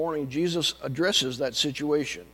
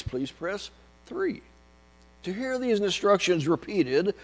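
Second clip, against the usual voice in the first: phone menu voice; 3 semitones higher, 7 dB louder than usual. Retold or imitated. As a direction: drone through the menu options. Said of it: "It went something like this".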